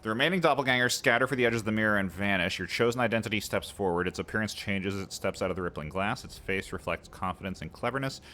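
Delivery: measured storyteller's read; steady narration for the game text. Acted. Reads game narration aloud.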